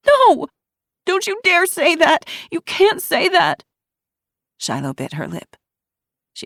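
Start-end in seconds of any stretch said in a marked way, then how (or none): 0.1-3.7 much higher, louder furious yell; furious denial. A narrator's reading. Ruby to Shiloh, furious screaming denial. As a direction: reject it outright.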